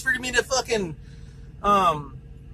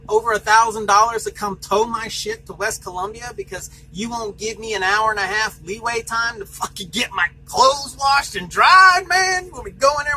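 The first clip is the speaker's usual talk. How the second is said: mock-outraged, pitched up at the start; retold exasperated protest; 3 semitones higher than usual. To the dispatcher threatening a tow, exasperated protest. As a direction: replay the heated complaint, hammed-up.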